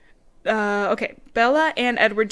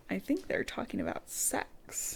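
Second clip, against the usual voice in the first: hushed, much softer mock-naive line; kid's guess; 12 dB quieter than usual. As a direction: murmur it like a kid working it out. Mimics a puzzled kid reader.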